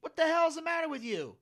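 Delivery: high-pitched exasperated dad; mock exasperation. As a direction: imitate a father demanding an explanation. Retold startled father scolding son.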